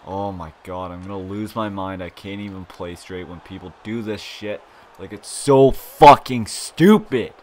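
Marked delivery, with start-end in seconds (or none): 5.3-7.3 frustrated outburst. Real, not acted. Raging at an annoying opponent.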